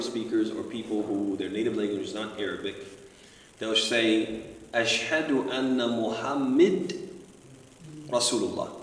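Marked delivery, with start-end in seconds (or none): 4.7-8.7 "Muhammad" ending in "-mid"; short i in the last syllable of "Muhammad"; changed vowel. Shown as a demonstration. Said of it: "You just change a vowel sound".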